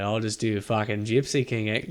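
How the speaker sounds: put-on accent slipping into Australian; half-hearted Australian-sounding accent; botched accent. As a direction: attempt a British accent, landing on Australian. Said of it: "This is just Australian".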